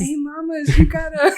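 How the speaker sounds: "mamas" redone through a laugh; laughing, "Hey, mamas" with no accent. Retold or imitated. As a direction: giggle while repeating "mamas". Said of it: "Why'd you say it like that?".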